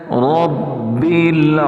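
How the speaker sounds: العالمین with a throat ain, not a hamza; slow recitation of رب العالمین with a clear ain; correct tajweed. Shown as a demonstration. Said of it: "کیسے پڑھنا ہے؟".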